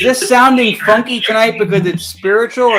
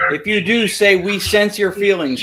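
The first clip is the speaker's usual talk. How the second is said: slow and deliberate; slower than usual. Real, not acted. Asking spirits questions, spoken slowly.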